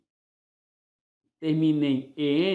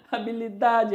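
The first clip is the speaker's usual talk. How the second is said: high pretend pet call through laughter; calling a dog; 5 semitones higher than usual. Teacher pretends calling dog to eat, laughing call. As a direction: call the name out playfully, laughing. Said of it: "vai chamá-las para dar ração".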